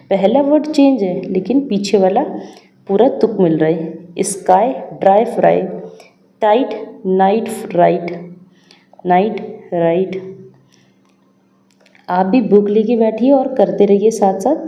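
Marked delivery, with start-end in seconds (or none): 4.2-8.4 नाइट राइट read out slowly for the class; slow classroom read of नाइट राइट; slow careful reading. Shown as a demonstration. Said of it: "लेट... rhyming words read out". 9.1-10.4 नाइट राइट read out slowly for the class; slow classroom read of नाइट राइट; slow careful reading. Shown as a demonstration. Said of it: "rhyming words read out".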